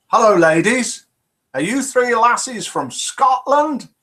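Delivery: a cheery hello to strangers in a bar; polite greeting. Retold or imitated. Joke narrator greets Scottish women.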